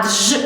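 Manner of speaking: «дж» run together as a single buzzed consonant; «дж» as one fused sound. Shown as a demonstration. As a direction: say «дж» fused, with no break between д and ж. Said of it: "вимовляється він злитно як один звук".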